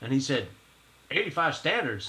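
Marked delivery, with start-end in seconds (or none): 1.1-2.1 put-on Texas accent, much higher pitch. Retelling a conversation, the speaker quotes what he said in a Texas accent. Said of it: "he's got that Texas accent".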